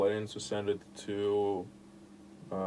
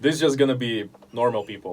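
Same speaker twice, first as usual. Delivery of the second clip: laughing; 2 semitones higher, 8 dB louder than usual. Retold or imitated. Quoting own decision, laughing.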